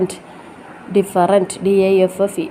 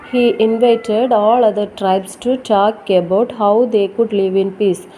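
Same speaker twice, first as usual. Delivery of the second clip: story read-aloud; 2 semitones lower than usual. Acted. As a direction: read it out clearly to a class of children. Reads lesson story aloud.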